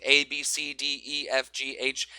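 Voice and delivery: A, B, C, D said evenly, each letter with the same weight; even beats. Shown as a demonstration. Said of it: "all kind of the same time".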